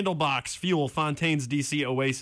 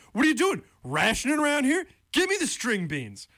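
a rapper's bit; 10 semitones higher than usual. Retold or imitated. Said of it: "it's like the rapper's bit".

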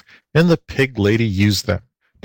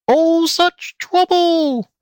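very high, slow squeal; high squealing pig voice; pig lady squeal; much slower than usual. A narrator's reading. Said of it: "squealed the pig lady".

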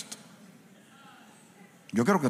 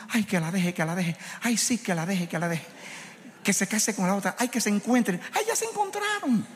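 swooning viewer; 6 semitones higher than usual. Retold or imitated. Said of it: "Y usted está diciendo".

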